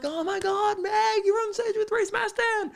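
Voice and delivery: very high, giddy squeal; proud excitement. Retold or imitated. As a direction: gush like a thrilled boyfriend. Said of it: "I'm like".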